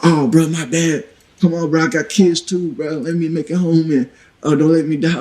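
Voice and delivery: lightly imitated begging, stretched at the start; pleading. Wounded man begging to get home to his kids, mild mock pleading.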